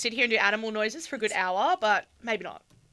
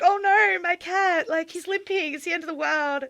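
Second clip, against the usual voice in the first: mock panic; 7 semitones higher than usual. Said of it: "totally panicked".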